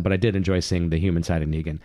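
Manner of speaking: running out of breath. Real, not acted. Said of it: "so I'm running out of breath here".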